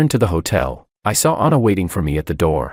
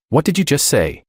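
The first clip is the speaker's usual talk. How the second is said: mildly surprised question, pitched higher; 7 semitones higher than usual. A narrator's reading. Anna questions what the narrator just said, mildly surprised. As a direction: ask it higher, with a touch of surprise. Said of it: "Surprised, she asked".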